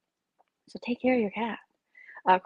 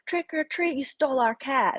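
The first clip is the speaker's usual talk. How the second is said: put-on higher kid voice, a touch singsong; little kids; 6 semitones higher than usual. Kids at the door accusing the family, higher voice. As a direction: pipe up like a child at the door. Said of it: "the little kids go".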